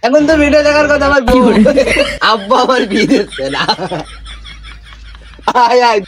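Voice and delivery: put-on belligerent drunk. Drunk man rambling to the goat.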